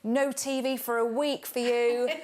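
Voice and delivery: a hammed-up parental telling-off; mock angry parent. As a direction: play the fed-up parent laying down the law. Parent's angry outburst at child.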